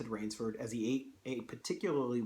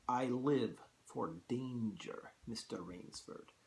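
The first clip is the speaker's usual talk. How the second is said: put-on Russian-accented hunter, slowing and softening to the end; General Zaroff; 3 dB louder than usual. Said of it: "hard to do a Russian accent".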